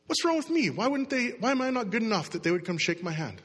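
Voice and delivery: high, wounded questioning, easing down; mock self-doubt. Acting out nobody shaking your hand, mock insecure self-questioning. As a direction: turn the blame inward, starting high.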